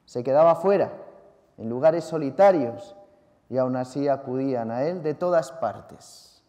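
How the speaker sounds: measured liturgical reading voice; Gospel reading. Acted. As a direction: proclaim the Gospel steadily to the congregation. Reads the Gospel aloud.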